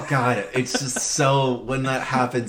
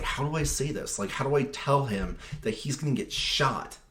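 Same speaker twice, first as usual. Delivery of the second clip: anxious muttering; 7 dB quieter than usual. Retold or imitated. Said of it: "he's just like".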